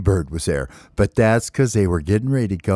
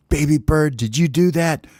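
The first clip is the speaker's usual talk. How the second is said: accusing friends; 6 semitones higher than usual. Acted. Friends accuse baby bird again.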